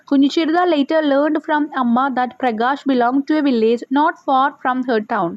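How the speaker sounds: slow, careful reading aloud; slow textbook reading. Shown as a demonstration. Teacher reading the lesson to pupils, slowly. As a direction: read each word out slowly for pupils.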